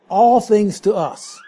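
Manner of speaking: "All things to us" with a firm push on All; emphatic. Shown as a demonstration. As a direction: punch All, then let the phrase fall away. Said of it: "in the order of emphasis".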